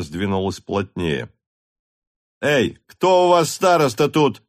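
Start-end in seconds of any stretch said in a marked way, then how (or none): 2.4-4.4 high, loud call to the crowd; officer hailing the peasants, loud and high; Rostov shouts. A narrator's reading. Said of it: "крикнул Ростов".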